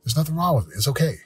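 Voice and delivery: affirmation spoken out, with conviction; firm self-affirmation out loud. Shown as a demonstration. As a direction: say it like you mean it. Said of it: "Say it".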